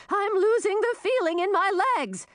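high-pitched distressed cry. A narrator's reading. Old woman with numbing legs to rescuers, crying out. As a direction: cry out in urgent complaint. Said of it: "cried Frizella".

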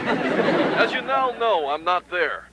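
soft voice on a tape recording; taped farewell message. Acted. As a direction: leave a subdued message on cassette.

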